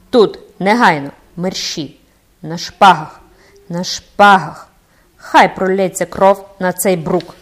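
loud, furious call to duel; enraged captain demanding a duel now; angry challenge. Acted. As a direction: bellow the challenge, sword drawn. Captain draws sword, challenges ghost.

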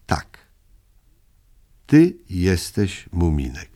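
calm. A narrator's reading. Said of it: "powiedziała spokojnie".

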